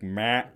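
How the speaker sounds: short "meh" buck-stopping bleat; imitated deer grunt. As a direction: bleat once to stop a deer. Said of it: "I did the classic".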